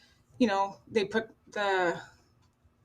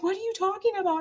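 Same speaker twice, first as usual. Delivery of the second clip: imitating boyfriend's disbelief; 11 semitones higher, faster than usual. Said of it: "he's like".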